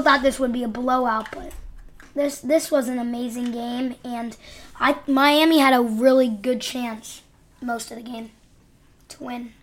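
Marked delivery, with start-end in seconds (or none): 4.8-9.5 talking with a mouth full; words round a snack; chewing while talking. Real, not acted. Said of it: "sorry guys if you hear me eating".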